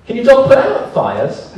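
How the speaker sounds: put-on Liverpool accent. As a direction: lightly imitate a cheeky Liverpool lad. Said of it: "What do you think of the accent".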